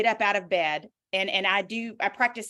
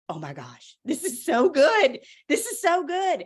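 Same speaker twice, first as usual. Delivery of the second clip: tearful gushing; 6 semitones higher, 4 dB louder than usual. Retold or imitated. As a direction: imitate a friend moved to tears, starting hushed then rising high. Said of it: "and she's crying".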